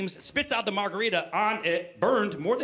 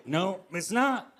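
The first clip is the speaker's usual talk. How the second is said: hungover refusal; 2 semitones higher, much slower than usual. Retold or imitated. Hungover husband answers cheery wife.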